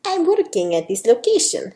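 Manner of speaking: lightly put-on Spanish accent; amateur, mild Spanish accent. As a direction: explain with a touch of Spanish accent. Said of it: "Sophia's got a bit of a Spanish accent".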